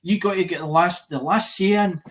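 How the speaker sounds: mock his mother scolding him, loud and insistent; imitating Ma. Son imitating his ma telling him off, loudly. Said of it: "that's what Ma says".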